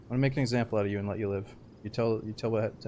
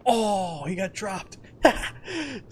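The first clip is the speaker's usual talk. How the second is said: high, loud oh, he got dropped; excited yell; 10 semitones higher, 5 dB louder, much slower than usual. Real, not acted. Gamer watching someone get shot, thrilled. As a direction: whoop at the kill with a laugh. Sees player killed, laughs.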